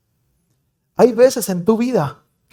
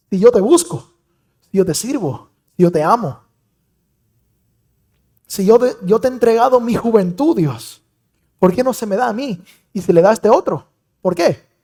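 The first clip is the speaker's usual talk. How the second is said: retold tearful prayer; 4 semitones higher than usual. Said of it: "lloraba y decía".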